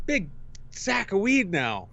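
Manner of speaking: laughing through the words, slowed right down; chuckling as he reveals the big sack. Real, not acted. Telling a friend about the weed haul, laughing slowly.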